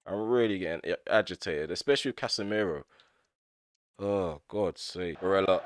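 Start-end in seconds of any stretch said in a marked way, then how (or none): none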